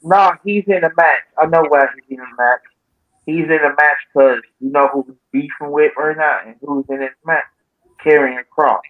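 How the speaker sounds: far from the mic; off-mic, faint and distant. Real, not acted. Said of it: "You sound a little far away though".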